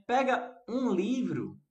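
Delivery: slow, stressing pega; slow demo quote. Shown as a demonstration. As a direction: say "Pega um livro" slowly, leaning on "Pega". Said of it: "Se eu disser".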